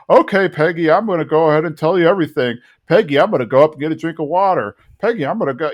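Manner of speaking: fast, evasive Hank babble; rattling it off. Retold or imitated. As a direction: rush through it to dodge the question. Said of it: "he kind of goes like that".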